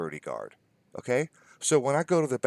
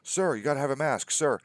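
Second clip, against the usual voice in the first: calling after someone; 5 semitones higher than usual. Retold or imitated. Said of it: "calling at me".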